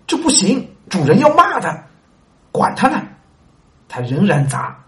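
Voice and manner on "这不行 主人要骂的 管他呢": high, loud excited exchange; a lively acted squabble; heated back-and-forth. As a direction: toss the lines back fast. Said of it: "slave and fool trade lines".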